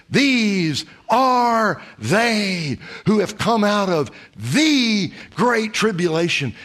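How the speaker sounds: very slow, drawn-out pronouncement; a grand heavenly announcement; solemn angel. Acted. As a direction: let the angel weigh every word. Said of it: "And the angel says".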